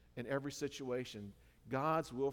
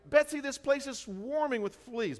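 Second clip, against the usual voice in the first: high, loud alarmed complaint; dismayed Corrie; 13 semitones higher, 8 dB louder than usual. Retold or imitated. Corrie complaining to her sister, high and loud. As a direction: voice her rising panic.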